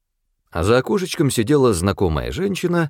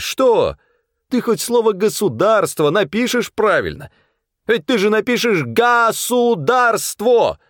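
angry man yelling at the post office clerk; indecent furious shout; 10 semitones higher than usual. A narrator's reading. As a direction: scream the insults at her. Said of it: "Он закричал неприлично".

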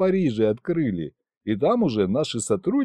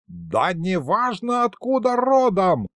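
mock yell at the grandson; yelling grandpa; 8 semitones higher, slower than usual. A narrator's reading. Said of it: "уже на меня заорал он".

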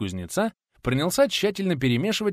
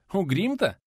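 laughing; 8 semitones higher than usual. Acted. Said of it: "расхохотался Николай Сергеевич".

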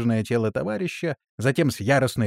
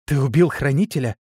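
cried out; 4 dB louder than usual. A narrator's reading. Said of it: "вскрикнула гномка".

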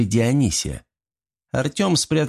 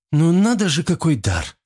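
higher, amazed exclamation; surprised; 7 semitones higher than usual. A narrator's reading. Niela marvels at the gremlin's curse, surprised. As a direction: marvel at it, voice jumping up. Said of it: "удивилась Ниела".

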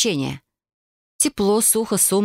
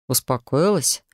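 low, rasping, barely audible; a rasped, hushed question; hoarse near-whisper; 4 semitones lower, slower than usual. Acted. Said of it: "прохрипел демон, едва слышно".

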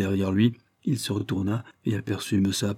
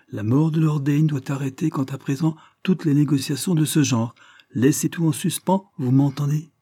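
higher, insistent command; firm and brusque; 6 semitones higher, 3 dB louder than usual. Acted. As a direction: lay down the order, no reply allowed. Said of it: "d'un ton décidé et quelque peu brusque". (ton décidé et brusque, plus aigu)

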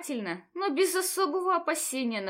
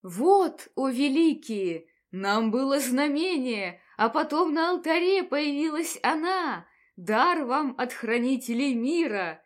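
put-on lamenting old priest; 4 dB louder than usual. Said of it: "причитал дедушка".

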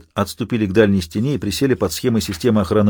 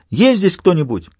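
calling out; 8 semitones higher than usual. Acted. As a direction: call out into the dark. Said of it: "заставила Марго себя крикнуть снова".

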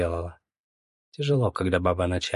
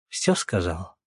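зло; 3 semitones lower, slower than usual. Acted. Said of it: "зло спросила Лена".

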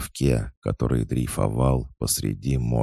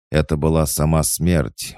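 higher, louder disbelieving outburst; shouted denial; 6 semitones higher, 5 dB louder than usual. A narrator's reading. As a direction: cry out refusing to believe it. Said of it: "выкрикнул я". (громкий выкрик неверия)

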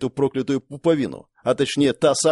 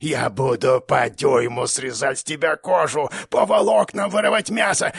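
torturer monster; 5 semitones higher than usual. Acted. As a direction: savour each threat like a beast.

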